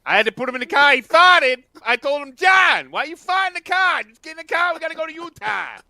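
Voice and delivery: high, loud hammed-up scolding parent; mock angry parent. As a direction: scold the kid in a shrill put-on parent voice. Parent voicing scolding of John.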